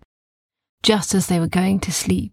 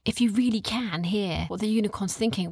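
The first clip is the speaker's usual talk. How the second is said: hushed awe; 7 dB quieter than usual. Acted. Kai awed, hushed.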